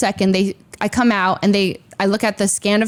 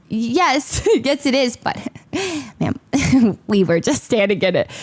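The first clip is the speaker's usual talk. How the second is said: laughing plea; slower than usual. Retold or imitated. Laughing while pleading with the agent.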